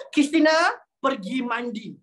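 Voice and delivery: mildly stern sample order; mock-angry command. Shown as a demonstration. Teacher ordering Christina to bathe, mildly angry. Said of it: "tadi intonasi saya marah kan".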